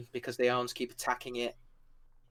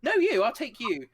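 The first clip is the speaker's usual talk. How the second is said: a lightly raised, cheerful pitch; higher eager NPC voice; 5 semitones higher than usual. Acted. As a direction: sell the odd deal brightly. GM voices Shah proposing terms.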